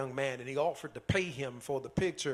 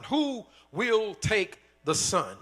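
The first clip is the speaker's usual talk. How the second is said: louder and slow, pleading for a bidder; calling out to the crowd; 5 semitones higher, 6 dB louder, slower than usual. Acted. Auctioneer calls out slowly and loudly, urging the crowd to take the son.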